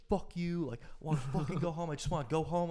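imitated high-pitched drunken griping; bitching. Retelling a friend demanding to go home, mock bitching. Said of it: "Justin's just bitching the whole time".

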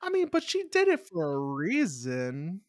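mock-plaintive excuse; protesting. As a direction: stretch REASON in a high wobble. Mock-pleading defence of Rose.

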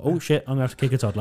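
rushed, laughing panic; dad facing a charging toddler, fast laughing panic; fast panicked aside. Retold or imitated. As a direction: blurt it out fast, half laughing. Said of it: "I was like".

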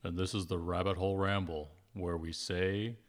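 stretched-out host voice; playful radio intro; put-on show intro. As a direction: announce the show with mock gravity, slowing at the end. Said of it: "we can have a low, low voice".

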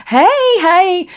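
high, squeaky hey hey of protest; awkward high-pitched protest from inside a bear hug; uneasy protest. Retold or imitated. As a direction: squirm away, politely pushing him off. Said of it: "And we're like".

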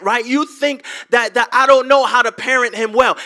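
loud, fast, offended rant about being a bad parent; hurt defensive outburst. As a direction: snap back as if insulted by a simple question. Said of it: "they respond and they say".

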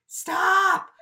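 high, loud drawn-out mock command; hypothetical alarmed outburst; emphatic halt. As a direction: cry out to halt someone. Acts out crushing a student's plans.

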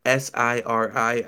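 "S I R I" spelled letter by letter, slowly. Real, not acted. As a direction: spell out "S I R I" one letter at a time. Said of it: "I can't say it out loud".

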